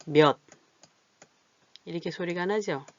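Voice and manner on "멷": 몇 ending in a stopped ㄷ sound; final ㅊ of 몇 pronounced as unreleased t. Shown as a demonstration. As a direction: say 몇 as 멷, loud and cut off by the stop. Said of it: "디귿으로 나요".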